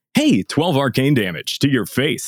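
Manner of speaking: breezy, animated, casual, chatty podcast-host delivery. Discussing how a character should sound, the speaker demos a casual podcaster voice. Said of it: "definitely not with that podcaster voice".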